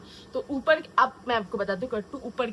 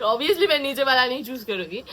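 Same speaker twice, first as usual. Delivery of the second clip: laughing; 5 dB louder than usual. Real, not acted. Laughs after joking.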